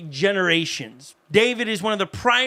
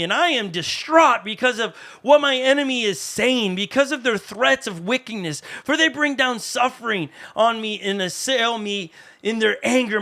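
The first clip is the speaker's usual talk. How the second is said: anguished pleading reading. Acted. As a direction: read the psalm as a cry for help from a hunted man. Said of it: "Now that sounds a little bit more".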